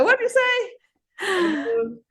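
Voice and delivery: high, very slow, near tears; stunned question. Retold or imitated. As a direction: barely get it out, overwhelmed.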